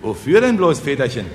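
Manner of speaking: a touch of puzzled curiosity; curious. Acted. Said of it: "fragten neugierig die Bauern". (neugierige Frage)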